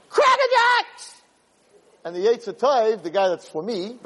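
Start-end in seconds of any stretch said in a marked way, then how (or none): 0.1-1.2 high, drawn-out scream, louder; screaming tempter. Acted. Evil inclination screaming his claim, jumping up and down. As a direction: shriek it while jumping up and down. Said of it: "he's jumping up and down screaming".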